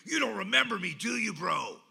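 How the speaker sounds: loud, pushy call of recognition; a tattooed guy rushing up, half shouting; loud excited greeting. Retold or imitated. Guy rushes him at airport.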